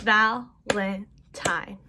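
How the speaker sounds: slow, chunked into beats; syllables together. Shown as a demonstration. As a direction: say it with the class, beat by beat. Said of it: "Now we do".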